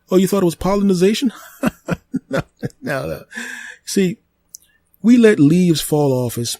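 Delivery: a living tree explaining itself to the human, high and smug; talking tree. Acted. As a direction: play the tree, smug and amused. Tree character talks to owner.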